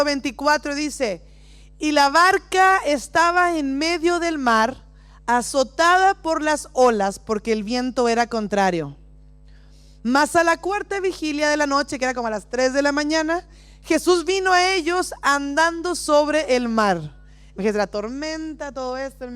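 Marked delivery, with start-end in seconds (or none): 1.8-12.0 scripture reading. Acted. Reads Bible passage dramatically. 13.8-17.2 scripture reading. Acted. Reads Bible passage dramatically.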